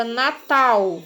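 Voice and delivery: slowly drawn-out "Natal" with a U ending; "Natal" with its L sounded as the vowel U; final L as U. Shown as a demonstration. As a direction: say "Natal" slowly, as if written Natau. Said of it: "o som dele já é diferente".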